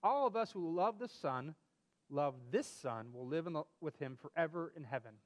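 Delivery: put-on reading a children's story aloud. Reading a story about Grandpa and Charlie to a friend, storyteller voice. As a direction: tell it like a bedtime story.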